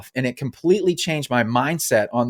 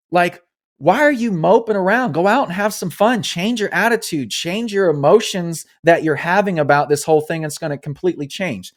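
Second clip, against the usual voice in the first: self pep talk; 5 semitones higher than usual. Retold or imitated. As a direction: snap yourself out of the mope, pitch up and push. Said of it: "I said".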